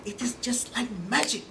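whispered in the dark theater. Real, not acted. In the hushed theater, telling the audience, whispered. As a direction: hush it like the lights just went out. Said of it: "Everybody is quiet".

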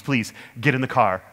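imitating a friendly, eager invitation; lightly acted cheery plea; smiling, teasing. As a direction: coax playfully through a smile. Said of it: "breaks into this huge smile".

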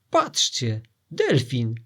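loud startled shout from the deck. Acted. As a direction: call out to the crew in alarm. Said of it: "usłyszał krzyk".

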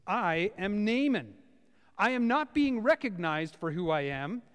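a touch of the snubbed big shot; offended Naaman. Retold or imitated. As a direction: general listing his credentials, indignant. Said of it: "Naaman is furious".

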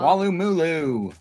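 high, slow, singsong name; playful place-name call-out. Shown as a demonstration.

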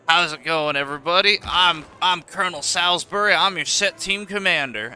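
hint of a thick Southern accent, introducing himself. Colonel introducing himself, light Southern accent impression. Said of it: "my crappy impression isn't gonna do him justice".

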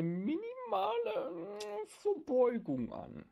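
high, slow, breaking with laughter; laughing. Real, not acted. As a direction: narrate while fighting laughter. GM narrating while laughing.

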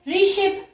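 slow रिशिप leaning on शिप; रिशिप, second syllable stressed; stress on last syllable. Shown as a demonstration. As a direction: press on the final प of रिशिप. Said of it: "पी पे".

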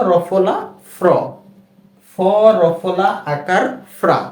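রফলা আকার ফ্রা drawn out slowly and evenly; teacher modelling ফ্রা at a slow pace; slow demo. Shown as a demonstration. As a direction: spell it slowly for learners. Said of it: "আবার একটু খেয়াল করা যাক".

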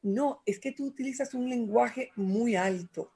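soft, patient correction. Retold or imitated. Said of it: "me miró y me dijo".

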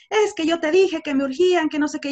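a touch of an angry client; mock angry client. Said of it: "pues me va a hablar muy enojado".

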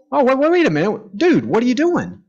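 high, indignant wait wait wait; indignant line cutting protest. Acted. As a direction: call out the line cutter in mock outrage. Acted reaction to line cutter.

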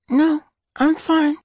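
mumbling through a mouthful; mouth full. A narrator's reading. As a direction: say it while chewing. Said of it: "mumbled through a mouthful".

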